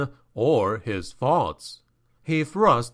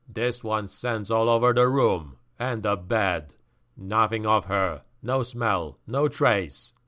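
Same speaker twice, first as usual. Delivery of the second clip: grunted; 4 semitones lower than usual. Acted. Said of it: "he grunted".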